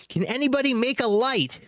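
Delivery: high pleading call; crying out. A narrator's reading. Hobbit calls to dwarves for a light, high. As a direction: ask the dark for light. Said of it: "he cried".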